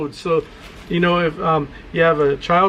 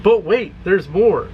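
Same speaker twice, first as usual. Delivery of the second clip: infomercial voice; 2 semitones higher, slower than usual. Shown as a demonstration. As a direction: hype it like a late-night ad. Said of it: "I'm gonna use my infomercial voice".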